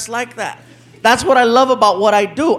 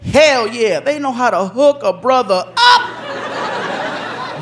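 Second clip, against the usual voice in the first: man thrilled by a welcome card; delighted reading; 3 semitones higher, slower than usual. Retold or imitated. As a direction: read the card out, slowly and pleased.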